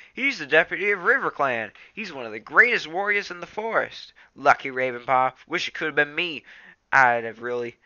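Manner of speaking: envious admiration; excited Graypaw. Acted.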